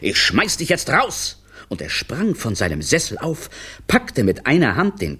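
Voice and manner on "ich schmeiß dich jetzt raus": high, slow, contained bellow. A narrator's reading. Director threatening to throw the clown out, contained bellow. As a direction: draw the threat out, pitched up. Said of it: "brüllte Bruno Brunelli".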